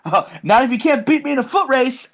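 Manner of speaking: high-pitched mock challenge; hammed-up taunting rival; Lodi. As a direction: throw down a playful dare. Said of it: "And he says".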